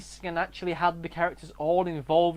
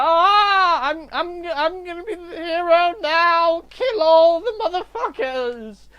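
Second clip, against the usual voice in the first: high, wailing battle cry; drawn-out overblown rallying shout; hammy hero cry; 9 semitones higher, 6 dB louder, slower than usual. Acted. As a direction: wail it out as a mock-tragic hero. Acting the hero's climactic moment.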